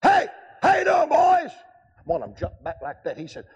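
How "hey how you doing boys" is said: high, loud greeting shout; hearty shout. Retold or imitated. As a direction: call out big to the bikers. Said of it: "Brother Robbins".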